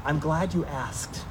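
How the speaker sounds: imagined Peter. Pretend. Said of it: "I imagine Peter being like".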